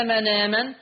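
"مناما" linked as "manaaman", no glottal stop; hamza dropped. Shown as a demonstration. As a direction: run the nun into the long aa of "مناما". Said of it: "فتصير في هذه الحالة". ("مناما" موصولة بنون مفتوحة: "مَنَامَن")

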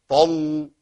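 «طل» with a heavy, thickened lam. Shown as a demonstration. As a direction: say «طل» with the ل wrongly darkened and held. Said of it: "يبدل اللام أو يغلظ اللام". («طل» بلام مغلظة)

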